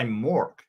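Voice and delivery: "Mork" as Americans say the name; American mispronunciation. Retold or imitated. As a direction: say "Mork" with an American-style vowel. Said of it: "Americans don't pronounce my name right".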